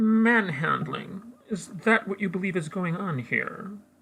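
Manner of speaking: haughty, lofty, superior tone, high and snooty. Playing a character answering an accusation in an acted scene, really snooty voice. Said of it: "you'd have to do a really snooty voice".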